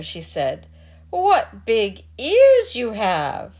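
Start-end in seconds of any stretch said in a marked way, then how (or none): 1.1-3.5 higher, slow and louder, amazed; wondering girl. Acted. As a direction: stretch it out in childlike awe. Little Red Cap questioning.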